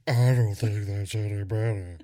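mimicking a co-host's put-on accent; silly accented voice. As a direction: parrot it in a goofy voice. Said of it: "easier to do silly voices".

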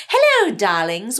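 put-on slow, faintly posh accent for the greeting; light mock-posh accent, slow; put-on fancy accent. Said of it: "Did you just do an accent?".

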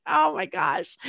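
high, startled oh my gosh; stunned. Retold or imitated. Reacting to the doctor's words, high surprised exclamation. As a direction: gasp it out in surprise. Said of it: "it's like".

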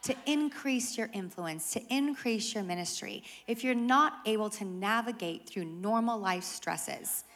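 soft, patient pastor voice; calm. Retold or imitated. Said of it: "she responds very calmly".

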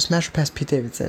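a hint of a pushy street interviewer; mock interviewer asking again. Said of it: "So I said".

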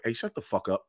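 softened, imagined telling-off; a rude line put gently, quietly; nicely. Retold or imitated. Comic imagines hushing own sister mid-show, softly polite. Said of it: "nicely be like".

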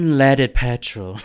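loud, slow ad-voice impression; Luann. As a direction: announce it like an overblown car ad. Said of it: "I'm imagining Luann being like".

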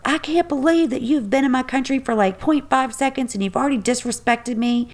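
mock yelling. He lays into her in the parking lot, mildly mock-angry. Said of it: "yelling at her".

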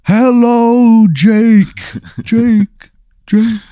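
high, drawn-out demon calling a name; put-on eerie high monster voice; toilet demon voice. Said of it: "and it goes".

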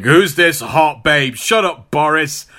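lightly voiced smug flirt, slowing on hot babe; casual playboy leer, a hint of Tony. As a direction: brush Boris off, eyeing the sister. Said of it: "Tony is like".

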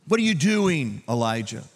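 mock rebuke. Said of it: "couldn't God have rebuked him".

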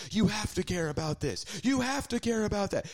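high-pitched mimicry of nagging partisans; mocking pushy demand.

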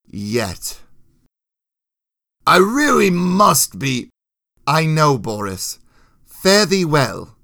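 lightly voiced knightly dialogue, formal and measured; courtly knight and old soldier. Knight thanking soldier and bidding farewell, courtly character voice. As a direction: speak as chivalrous comrades parting. Voices both men parting.

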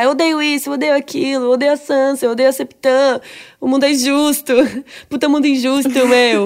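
playful imitation of a fed-up kid; acted-out, mildly indignant tirade; mock angry rant. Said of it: "a Arya tá muito revoltos".

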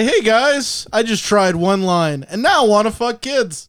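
cheesy radio host voice. Pretend. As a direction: sell it like a morning show host. Mocking the disgraced radio host.

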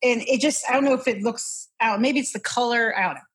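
ordinary talk, nothing marked

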